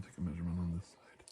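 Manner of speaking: quick unvoiced whisper. Doctor measuring the other side of the face, whisper. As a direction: murmur it briskly.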